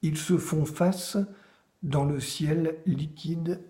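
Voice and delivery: measured recital with pauses between phrases; poem read to listeners; poetry reading. Acted. Reads own poems aloud after introduction.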